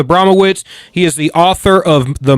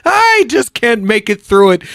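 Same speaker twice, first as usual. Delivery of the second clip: imitating laughter; 6 semitones higher, 3 dB louder than usual. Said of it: "starts cracking up laughing".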